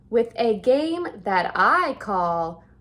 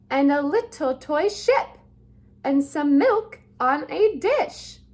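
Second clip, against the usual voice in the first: showing-off cat; 3 dB louder than usual. Acted. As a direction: crow about every trick.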